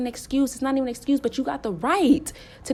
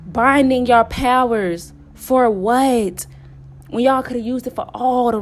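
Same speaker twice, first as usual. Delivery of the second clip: indignant rebuke; 5 dB louder than usual. Real, not acted. Scolding wasted powers, a loud indignant rebuke. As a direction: demand an answer, offended.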